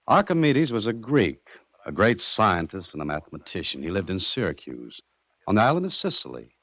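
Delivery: measured, deliberate storytelling; story narration. Acted. Captive telling gangster of Archimedes, measured storytelling. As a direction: tell it like a solemn parable.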